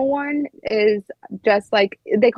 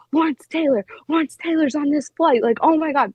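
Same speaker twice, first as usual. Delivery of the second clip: higher-pitched mock excitement, star-struck; imitated freak-out; 6 semitones higher than usual. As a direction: retell a fan losing it over a celebrity. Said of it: "he's freaking out".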